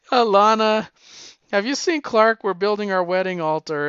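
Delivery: loud, high mock hail to a rival; calling out. Retold Lois calls out to Lana.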